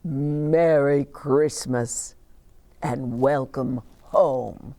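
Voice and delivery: slow, kindly Santa voice; gentle Santa. Acted. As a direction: welcome her home slowly like Santa. Santa greets Dasher.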